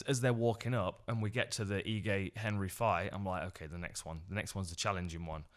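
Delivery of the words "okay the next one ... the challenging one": quiet, low inner dread before the hard name; nervous murmur. Retold or imitated. Commentator bracing himself for the hard name, quiet murmur. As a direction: mutter it to yourself, bracing.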